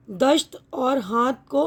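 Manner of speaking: दश्त with a clear sh sound, slowly; slow, stress on दश्त; dasht with sh. Shown as a demonstration. Teacher contrasts दश्त with दस्त. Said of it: "दाल में बड़ी शीन मिला दिया".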